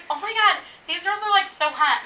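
high, starstruck gush; mock awestruck gushing. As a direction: gush over the hot girls. Retells gushing over the girls.

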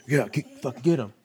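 egging on. Real, not acted. Still egging the dog.

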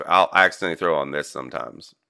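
casual Southern-tinged Ohio talk; Southern accent. Shown as a demonstration. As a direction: slip lightly into a Southern twang. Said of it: "You just slid right into that".

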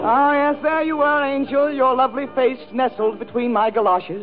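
hammed-up lover's monologue with swelling and dropping pitch; mock-romantic recitation. Reciting a mock love story to Stephanie, hammed-up romantic. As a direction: declaim it like a melodrama love letter.

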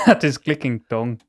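put-on Northern Irish accent, cracking up; hammed Northern Irish accent through a laugh. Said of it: "in a Northern Ireland accent".

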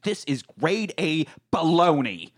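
slow, emphatic imitated indignation; mock pissed off. Veronica storming in over a cat fashion show story, slow mock anger. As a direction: spell out the outrage word by word. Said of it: "Veronica comes in pissed off".

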